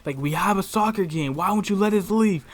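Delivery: heated, insistent complaint; mad as hell. Retold or imitated. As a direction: push back loudly, like an angry student. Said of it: "he's fucking mad as hell".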